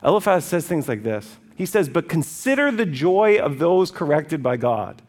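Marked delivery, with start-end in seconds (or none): 1.9-5.0 slow, lifted, emphatic reading; emphatic quotation. Acted. Eliphaz counselling suffering Job, slow emphatic pronouncement. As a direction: proclaim the counsel slowly.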